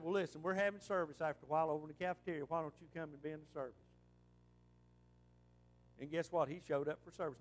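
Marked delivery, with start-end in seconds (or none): 0.0-3.7 friendly invitation. Retold or imitated. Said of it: "And I said".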